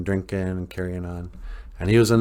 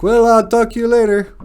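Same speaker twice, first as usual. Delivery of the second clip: mock shy girl voice; 13 semitones higher, 8 dB louder than usual. Shy Adrian answers Rocky.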